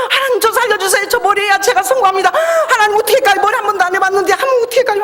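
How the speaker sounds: re-enacted panicky plea, high-pitched; desperate prayer. Novice hairdresser begging God for help in back room, panicked prayer. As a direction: beg God frantically, voice pushed up high. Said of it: "제가 방에 들어가서 생명을 기도했어요".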